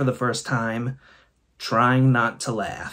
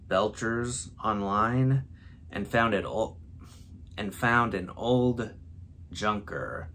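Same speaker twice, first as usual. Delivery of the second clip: measured storyteller read, softer than chat; story narration; 3 semitones lower, 9 dB quieter than usual. Acted. Reading a friends' Mad Lib for the first time, story narration. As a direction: read the silly story with a straight delivery.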